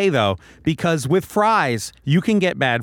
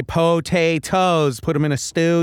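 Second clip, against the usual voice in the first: Samwise potatoes. Retold or imitated. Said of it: "I'm a big Lord of the Rings guy".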